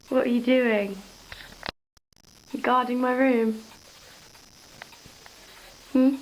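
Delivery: dog-owner's playful questioning; talking to the dog. Real, not acted. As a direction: tease the dog with loud, fond questions.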